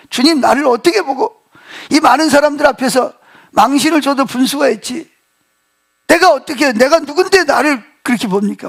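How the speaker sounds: mildly acted offended protest; retold indignation. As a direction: play Peter lightly affronted, only a touch heated. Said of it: "막 화가 나가지고 막 펄펄 뛰는".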